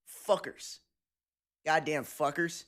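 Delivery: "Fuckers" with the R leaned on; hard American R. Retold or imitated. Streamer imitating a friend's pet word, hard R on "Fuckers". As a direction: say "Fuckers" with an emphatic American R at the end. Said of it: "American emphasis on the R".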